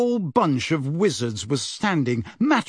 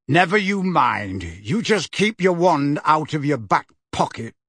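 a touch of a gruff growl; mild growl. Acted. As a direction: brush the question off gruffly. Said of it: "growled Mad-Eye".

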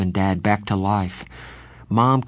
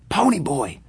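calling out; 7 semitones higher than usual. Acted. Johnny waking him.

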